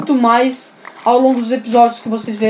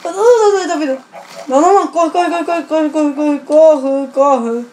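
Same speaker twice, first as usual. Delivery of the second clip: being chased; 4 semitones higher than usual. Real, not acted. Creeper chasing, urging himself on.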